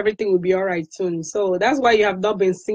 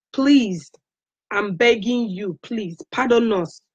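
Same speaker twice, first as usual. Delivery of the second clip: begging. Real, not acted. User begs Facebook to pardon Biafrans, pleading.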